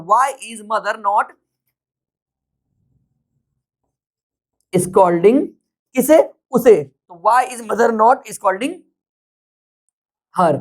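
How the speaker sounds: very slow with long pauses; slow classroom dictation. Shown as a demonstration. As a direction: build it up word by word. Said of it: "teacher building sentence slowly".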